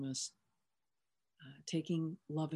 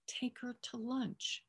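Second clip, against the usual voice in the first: slow, spelled-out order; 6 semitones higher, 5 dB quieter, slower than usual. Retold or imitated. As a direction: take her to lunch, said slowly word by word. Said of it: "Are you not getting the theme here?".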